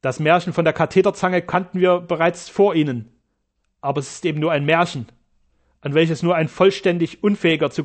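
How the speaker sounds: loud contemptuous retort. Acted. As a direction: dismiss him with scorn.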